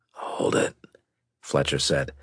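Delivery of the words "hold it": hoarse half whisper; just above a whisper; near whisper. Acted. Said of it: "a little louder than a whisper".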